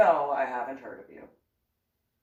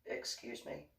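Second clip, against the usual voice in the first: offended hush; 14 dB quieter than usual. Retold or imitated. Offended by bipolar question.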